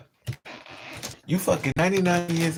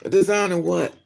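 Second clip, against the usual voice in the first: incredulous; 3 semitones higher, 4 dB louder than usual. Real, not acted. Mocking the claim loudly.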